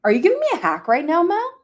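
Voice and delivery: fast, high amused surprise; playful surprise. Real, not acted. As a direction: tease back in surprise.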